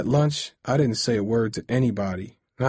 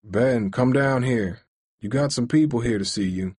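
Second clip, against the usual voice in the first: strange voice. Acted. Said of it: "calling up to me in a strange voice".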